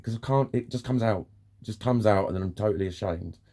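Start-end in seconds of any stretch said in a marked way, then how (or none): none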